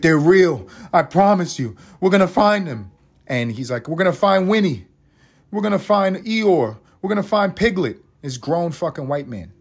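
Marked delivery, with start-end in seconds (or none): 0.0-8.0 mock frantic rant. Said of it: "is screaming this to his girlfriend".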